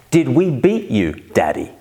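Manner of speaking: lightly voiced child asking Daddy; a hint of a little girl's cheeky question; daughter's question. Dad quoting his four-year-old, lightly voiced child. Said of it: "she asked".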